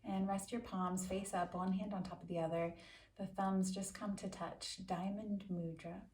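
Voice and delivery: calm, measured meditation voice with long pauses; guided meditation. Acted. Yoga teacher settles listeners into a quick seated meditation, calm guided-meditation delivery. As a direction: guide them unhurriedly, leaving space after each instruction.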